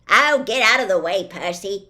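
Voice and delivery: loud, cheeky brush-off; teasing call. Acted. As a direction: shoo him aside loudly. Twins mocking Percy, calling out.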